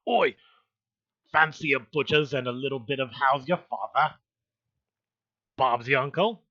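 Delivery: loud Cockney character voice; loud, exaggerated Cockney accent; mock Cockney. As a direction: belt out cheeky Cockney slang. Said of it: "Eric Foams will say".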